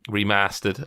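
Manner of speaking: "remastered" slowly in a tentative Northern accent, short a; attempted Northern accent. Shown as a demonstration. Host imitating cohost's Northern accent, tentative. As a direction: try "remastered" with a Northern English a. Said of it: "I can't do the accent that you".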